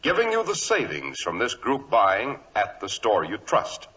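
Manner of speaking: smooth radio announcer selling suits; ad read. Acted. Announcer selling Clippercraft suits to listeners, upbeat ad read. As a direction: pitch it like a sponsor spot.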